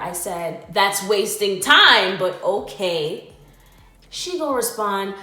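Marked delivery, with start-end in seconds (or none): 0.7-3.3 retold louder repeat, slow and pointed; emphatic, slowed-down retort, louder on the first words. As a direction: say it again louder, drawing the words out. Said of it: "I repeated myself louder".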